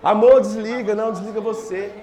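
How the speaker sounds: lovey couple teasing on phone; giggly late night call. Retold or imitated. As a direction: coo it like lovers who won't hang up. Couple won't hang up.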